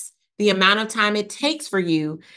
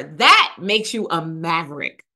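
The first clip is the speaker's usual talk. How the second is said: excited shout; 2 semitones lower than usual. Real, not acted. Host excited announcing new level.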